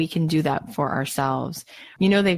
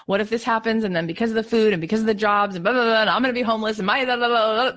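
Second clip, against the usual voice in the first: anxious worrying rush; 5 semitones higher, faster than usual. Retold or imitated.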